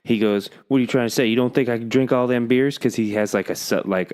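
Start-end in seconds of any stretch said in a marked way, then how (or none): 0.7-2.8 put-on higher, indignant Georgia accent. Old camper to a ranger doubting his drinking, Georgia accent. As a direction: challenge them in a mock Georgia accent. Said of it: "a Georgia accent".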